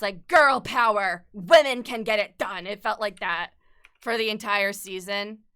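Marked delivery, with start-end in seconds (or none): 0.3-2.7 mock girl power. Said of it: "that scene in Avengers Endgame".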